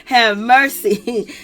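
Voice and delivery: slow, drawn-out plea to the Lord; drawn-out exasperation. Retold or imitated. Recapper reacting to the mama's antics, exasperated and drawn out. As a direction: stretch it out in mock despair. Her exasperated aside on the show.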